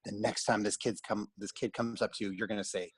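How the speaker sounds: put-on gentle, patient therapist talking to a child; kid therapy voice. Shown as a demonstration. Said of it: "that was my kid therapy voice".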